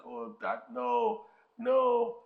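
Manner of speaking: put-on high, whiny child protest; mock childish whine; whining boy. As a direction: whine like a kid. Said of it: "And the boy like".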